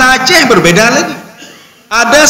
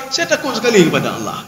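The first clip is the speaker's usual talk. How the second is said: much softer "Karena saya takut sekali pada Allah"; pious answer; 6 dB quieter than usual. Pretend. Preacher voicing a believer's answer, much softer. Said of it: "Kenapa tidak ghibah".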